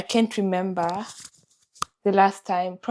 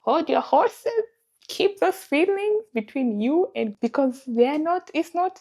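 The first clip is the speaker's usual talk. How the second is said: gentle self-talk; 5 semitones higher than usual. Retold or imitated. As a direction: talk yourself down gently, pitched up. Quoting her own inner pep talk.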